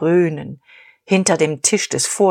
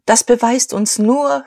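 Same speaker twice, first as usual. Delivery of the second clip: higher, raised voice; calling out; 6 semitones higher than usual. A narrator's reading. Dieterich answers the hall, raised voice. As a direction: call it over the room. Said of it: "rief Dieterich".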